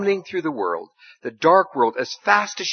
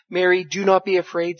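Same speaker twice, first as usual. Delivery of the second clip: gentle reassurance; 5 semitones higher, 4 dB louder than usual. Acted. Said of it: "still more gently".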